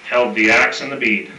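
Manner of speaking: reciting a rhyming cowboy poem; cowboy poetry. Acted. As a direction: read it like a campfire cowboy verse. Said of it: "it's somewhat of a cowboy poem".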